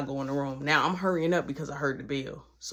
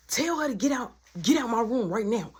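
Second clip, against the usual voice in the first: raised, insistent order; acted heated instruction; urgent demand; 4 semitones higher than usual. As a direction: demand it in one quick run. Acted demand in quarrel, first take.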